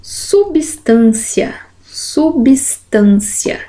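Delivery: "Substância" drawn out very slowly; pronúncia pausada. Shown as a demonstration. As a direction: sound out "substância" slowly, part by part. Teacher sounding out a word. ("substância" dito bem devagar e pausado)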